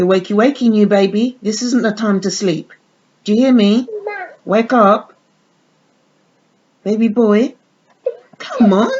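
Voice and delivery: put-on mother coaxing her new baby doll to wake, sing-song; baby talk.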